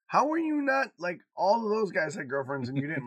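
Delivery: high, loud disbelief; daughter's voice. Retold or imitated. Dad quotes daughter baffled he was single, high and loud. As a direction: press the point in disbelief. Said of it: "she goes".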